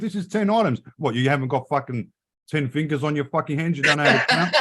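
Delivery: high-pitched sarcastic scolding, laughing at the end; mock telling off. Mocking shopper who can't count, high sarcastic rant. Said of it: "So I say to the actual person".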